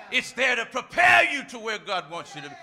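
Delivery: loud shouted promise; preaching shout. Real, not acted. Preacher shouting encouragement about the storm, full force. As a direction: belt it out to the back pew.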